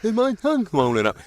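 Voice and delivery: strangled voice. Retold or imitated. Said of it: "I said".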